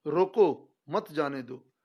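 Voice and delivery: रोको set apart, then मत जाने दो together; pause after रोको. Shown as a demonstration. Teacher reads the second version, pause after रोको. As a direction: break straight after रोको. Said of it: "विराम चिन्हों का कमाल देखिए".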